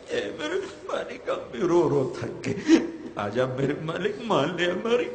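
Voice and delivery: pleading, rising and falling prayer chant; fervent Urdu dua; impassioned prayer. Acted. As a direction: plead with God in a preacher's cadence.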